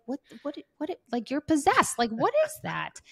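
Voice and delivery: mock disbelief, as if the kid is possessed; a parent stunned by the sudden switch to cuddles; baffled parent. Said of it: "And you're like".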